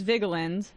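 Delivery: Vigeland said with the English short i. Shown as a demonstration. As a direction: say Vigeland in an American way. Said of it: "have I been pronouncing Emma's last name wrong".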